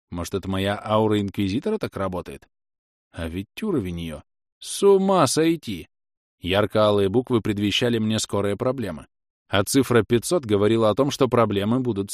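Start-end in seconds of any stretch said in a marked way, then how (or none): 4.6-5.9 stunned. A narrator's reading. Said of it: "shock at level".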